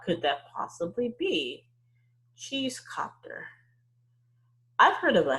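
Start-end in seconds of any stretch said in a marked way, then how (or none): 2.4-3.5 breathy wondering whisper; musing whisper. Real, not acted. Teacher wondering aloud to her class in a hushed voice. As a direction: puzzle over the word under your breath.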